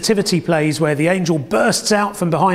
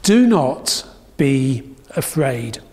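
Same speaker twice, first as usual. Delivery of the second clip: slow, reflective; 5 semitones lower, slower than usual. Real, not acted. Preacher repeating the angel's words to the congregation, slow and gentle. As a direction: let it land, slowly and gently.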